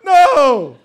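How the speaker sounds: high, loud hammed-up wail; badly faked grief, building to a loud cry; fake crying. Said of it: "had to fake cry".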